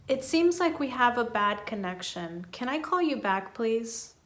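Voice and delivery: calm and sincere, fixing the problem. Shown as a demonstration. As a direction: sound like you truly want to help. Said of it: "You sound sincere".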